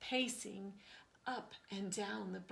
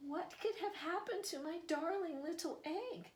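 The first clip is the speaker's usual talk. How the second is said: worried mother crow; 7 semitones higher than usual. Acted. Mother crow finds nest empty.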